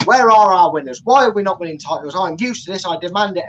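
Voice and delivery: mock a fan demanding trophies. As a fan used to winning titles, mock-demanding. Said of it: "you're there as a fan going".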